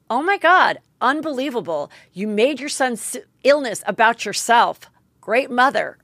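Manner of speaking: retold scornful rebuke. Brandy cuts off a mother's hospital story, imitated scornful rebuke.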